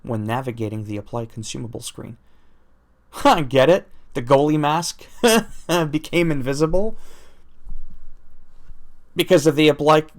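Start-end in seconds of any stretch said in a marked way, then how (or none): 3.2-10.0 louder, higher, laughing through the words; real giggly amusement at a bad pun; laughing at own joke. Real, not acted. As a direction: crack up at the pun while explaining it. Laughing at own goalie mask joke.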